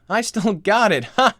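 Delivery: laughing through it, pleased with himself; gloating laugh. Acted. Dad bragging about his heart rate, laughing. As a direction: chuckle while bragging.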